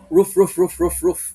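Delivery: loud, punchy barking roof; dog bark. Shown as a demonstration. Teacher repeating the dog's bark for the class, loud. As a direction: bark hard like a guard dog. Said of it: "I-dissect natin yung tahol ng aso".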